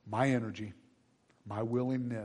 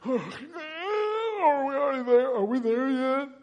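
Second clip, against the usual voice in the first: very high, drawn-out whine; whiny sleepy teenager; 11 dB louder, slower than usual. Acted. Teenager in the back seat asking dad, whining. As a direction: sigh and whine like a kid waking up.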